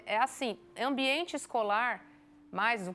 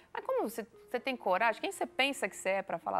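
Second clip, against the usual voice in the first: indignant parent; faster than usual. Retold or imitated. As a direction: play the offended father scolding the teacher. Angry parent confronting teacher.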